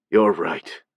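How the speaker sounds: low, worn-out admission; tired voice. Acted. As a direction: sound drained and weary. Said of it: "he admitted with a tired voice".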